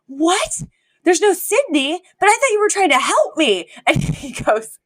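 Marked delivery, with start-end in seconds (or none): 0.1-3.7 much higher, wide-eyed mock confusion; Cece, mock innocent. Scheming housekeeper feigning innocence to the butler, high mock bafflement. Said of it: "And she's like".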